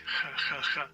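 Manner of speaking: raspy Spanish J on "ha"; "ha" pronounced like a Spanish J, repeated; Spanish J sound. Shown as a demonstration. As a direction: say "ha" with a strong throaty h, as Spanish J. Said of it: "J in Spanish is".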